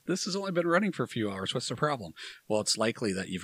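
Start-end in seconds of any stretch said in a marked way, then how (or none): 0.0-2.1 high, baffled outburst; suddenly thrown by a problem; exasperated surprise. Retold or imitated. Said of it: "you're like".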